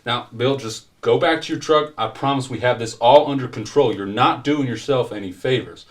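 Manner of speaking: insistent, placating cop; police officer intervening. Acted. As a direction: talk down an angry local. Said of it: "interjects and kind of tries to push".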